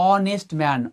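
অনেস্ট said with a silent এইচ, opening on অ; pronunciation demo. Shown as a demonstration. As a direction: show that অনেস্ট starts with অ. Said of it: "অনেস্ট ম্যানের এইচ উচ্চারণ করো দেখো তো". (অনেস্ট এর শুরুতে এইচ নয়, অ ধ্বনি)

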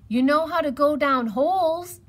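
high, loud appeal; urging hedgehog. A narrator's reading. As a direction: press a friend to help. Hedgehog urges Rabbit to help.

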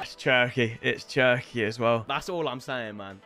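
low, soft mumble; understated, low-pitched aside; muttered aside. Real, not acted. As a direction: drop down low and murmur it. Aside about the player.

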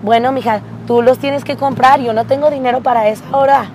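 lightly voiced mom. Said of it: "Y mi mamá me dijo".

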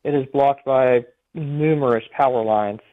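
over a phone line; speaking down a phone line. Real, not acted. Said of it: "we have you on the phone".

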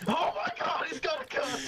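very high, panicky squeal; panicked captive. Acted. Captive fears the pirate will kill them, panicked. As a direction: squeal it in hammed-up terror.

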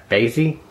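"Bazy" with a long ay; alternative pronunciation. Shown as a demonstration. Lockpicker guessing at the lock's name, unsure pronunciation. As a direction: say "Bazy" to rhyme with lazy. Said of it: "don't know how you pronounce it".

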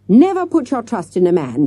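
put-on a theatrical teacher begging the girls to heed her; earnest plea. A narrator's reading. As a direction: urge it with all her heart. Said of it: "gazing earnestly".

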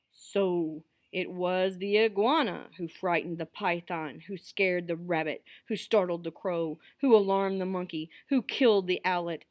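king laying out a chain of blame; storytelling recap. A narrator's reading. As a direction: cumulative tale, emphatic then settling. King's cumulative recap to council.

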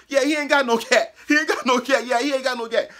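high, loud jeering chant; mock him for bluffing, loud; taunting shout. Attackers calling his bluff.

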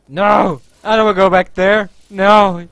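groaning zombie no; zombie wail. Pretend. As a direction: moan it like the undead. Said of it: "I sound like a zombie".

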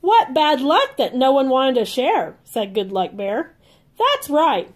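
lively storybook read-aloud for little ones; reading to children. A narrator's reading. Aunt reading a Care Bears book to kids, bright and lively. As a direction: read it like a bedtime picture book.

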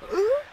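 mock gasp. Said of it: "you go".

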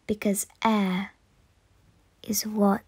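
slow, low and soft with long pauses; fading away. Acted. Air returns to nothing as breath ends, fading away. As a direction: let it sink slowly into a final whisper.

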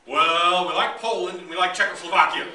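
hammed-up communist negotiator, breaking into laughter; mock communist reply. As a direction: play the communist's cheeky pick, half laughing. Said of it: "who would you like to have".

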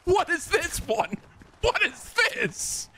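slow, high-pitched amused wail; laughing disbelief. Real, not acted. Streamer baffled by new overlay, high laughing disbelief. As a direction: stretch it out high, cracking up.

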